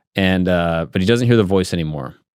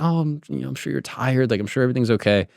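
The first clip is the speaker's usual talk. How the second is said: lightly voiced soothing wife, softer; reassuring wife; 5 semitones higher, 3 dB quieter than usual. Wife to husband who's been hearing stuff, reassuring. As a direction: imitate a wife gently brushing off worry.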